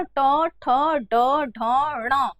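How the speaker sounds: ट, ठ, ड, ढ, ण with tongue on the roof of the mouth; retroflex consonant demo. Shown as a demonstration. Teacher asking students to notice their tongue, retroflex consonant demo. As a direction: sound out ट, ठ, ड, ढ, ण separately. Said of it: "ध्यान दीजिए कि आपकी जीभ कहाँ स्पर्श".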